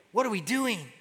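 softly voiced self-questioning; quiet realization. Retells lepers' sincere self-reproach.

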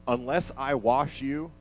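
very calm. Retold or imitated. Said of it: "very calmly".

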